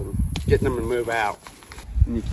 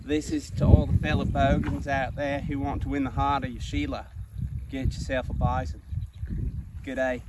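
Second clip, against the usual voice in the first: mock Aussie accent; 7 dB quieter than usual. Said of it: "critique my Aussie accent".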